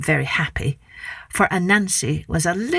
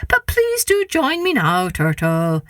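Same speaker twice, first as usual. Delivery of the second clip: trickster tale voices; 2 semitones higher, slower than usual. Acted. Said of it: "said Anansi".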